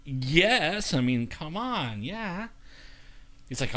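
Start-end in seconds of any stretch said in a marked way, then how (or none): 0.1-2.5 mildly exasperated retelling. Retold or imitated. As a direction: answer as if it's obvious, stretching it out. Retold answer to obvious pain question.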